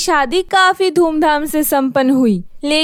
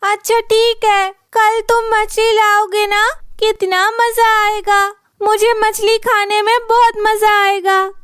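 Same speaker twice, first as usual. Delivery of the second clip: put-on higher, eager young woman; gleeful anticipation of fish; delighted wife; 5 semitones higher than usual. Minnie delighted at the promise of fish, higher and eager.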